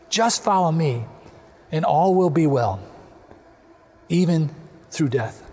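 tender appeal in unhurried phrases with long pauses; gentle, gracious reassurance. Shown as a demonstration. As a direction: reassure a friend gently, full of grace. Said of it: "gently shaking his head and quietly saying to Peter".

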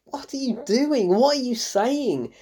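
high-pitched, baffled questioning; exasperated disbelief. Real, not acted. Critic questioning a useless character, exasperated. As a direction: demand an answer, stretching the question.

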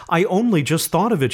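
high hysterical outburst; near-hysterical, voice pitched high. A narrator's reading. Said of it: "she said hysterically".

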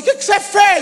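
high, loud, startled question; mock alarmed demand to know. Acted alarmed question from shop staff.

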